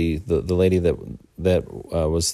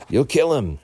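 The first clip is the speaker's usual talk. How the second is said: high-pitched retold warning; mock urgent plea; imitated alarmed yell; 9 semitones higher than usual. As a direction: act out her alarm, pitched way up. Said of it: "Laurel yelled him".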